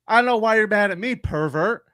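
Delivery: high, loud, fast indignant retort; upset retort. Retold or imitated. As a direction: fire it back like an insulted kid. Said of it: "who was very upset".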